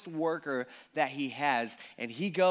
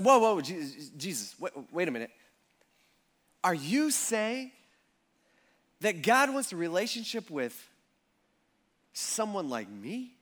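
amazed hope. Retold or imitated. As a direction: ask it as if hardly daring to hope. Outsiders amazed by God's welcome.

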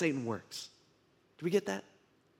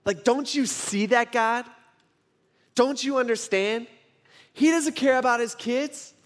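higher, insistent pleading case; exasperated Satan arguing with God; acted accusation; 5 semitones higher than usual. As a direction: press the charge point by point, pitched up. Acts Satan accusing Job before God.

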